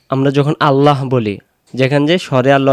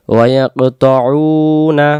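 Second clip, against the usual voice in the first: slow drawn-out chant; Quran recitation; much slower than usual. Shown as a demonstration. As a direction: stretch the word melodically. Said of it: "teacher chants the verse". (ধীর সুরে টেনে পড়া)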